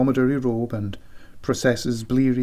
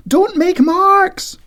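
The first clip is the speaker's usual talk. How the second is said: high, loud, slow shout; shouted order; 5 dB louder, slower than usual. Acted. Siobhan shouting from the bedroom, high slow order. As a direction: call out a sharp warning.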